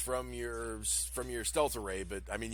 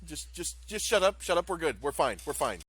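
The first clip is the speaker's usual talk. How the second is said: nervous hush; 5 semitones higher, 3 dB louder than usual. Acted. Nock hushing, settling nervously.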